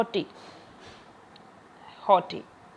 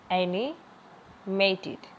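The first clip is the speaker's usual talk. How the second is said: एनिमेटेड drawn out very slowly; slow syllable drill; much slower than usual. Shown as a demonstration. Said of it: "important है". (एनिमेटेड बहुत धीरे बोलें)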